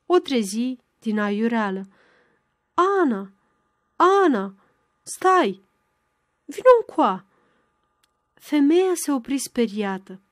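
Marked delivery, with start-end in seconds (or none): 2.7-7.2 lightly voiced old beggar woman calling out, higher; a hint of a doddering stammer, calling after her; stammering old crone. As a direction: call across the yard as a cracked old woman. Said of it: "un glas bâlbâit și hodorogit".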